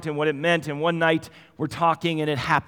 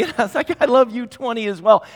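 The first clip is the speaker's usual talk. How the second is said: laughing; 8 semitones higher, 8 dB louder than usual. Real, not acted. Father answering daughter, laughing.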